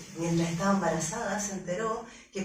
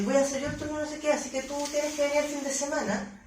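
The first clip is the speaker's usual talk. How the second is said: fast, higher, brisk announcement; pushy coworker; 6 semitones higher, faster than usual. Retold or imitated. Coworker imposing the weekend shift, fast and higher. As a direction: rattle it off like a pushy colleague.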